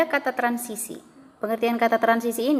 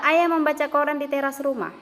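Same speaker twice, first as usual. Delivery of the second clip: "Ayah membaca koran di teras rumah" held on one raised, even pitch; level reading intonation; 5 semitones higher than usual. Shown as a demonstration. Teacher reads an example of reported speech, "Ayah membaca koran di teras rumah" in level intonation. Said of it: "membacanya datar".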